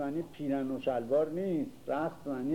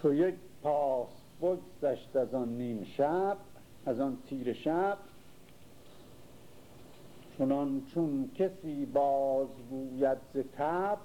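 slow, measured recital of an epic verse; poem recitation; slower than usual. Acted. Teacher reciting Shahnameh to the class, slow and measured. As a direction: draw out each hemistich like a bard.

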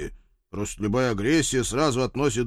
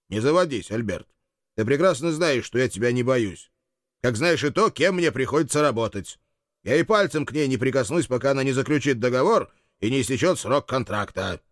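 raised voice; 2 semitones higher than usual. Acted. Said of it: "Я тоже повысил голос".

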